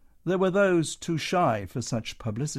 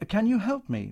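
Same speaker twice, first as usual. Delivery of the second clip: Matron's voice; 10 semitones higher than usual. Acted. Matron asks stage woman.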